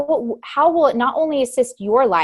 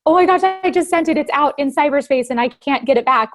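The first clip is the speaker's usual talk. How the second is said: panicked alarm; 4 semitones higher than usual. Retold or imitated. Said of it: "and you're like".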